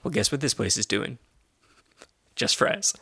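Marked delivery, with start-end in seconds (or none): 2.4-2.9 whispering. Shown as a demonstration. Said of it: "repeated punchline".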